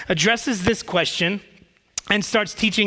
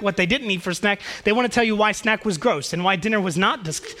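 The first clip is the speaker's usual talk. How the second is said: normal talking voice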